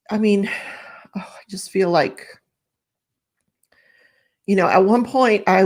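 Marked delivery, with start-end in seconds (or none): 0.1-2.3 breathy whisper, holding back tears; barely voiced, fighting tears; choked whisper. Real, not acted. Upset, trying not to cry.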